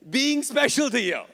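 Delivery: high, loud plea; longing plea. Acted. Moses pleading with God, high and loud. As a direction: cry it out as a yearning prayer.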